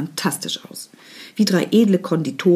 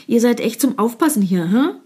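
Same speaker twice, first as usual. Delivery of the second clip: disdainful; 5 semitones higher than usual. Acted. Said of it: "fragte sie abfällig".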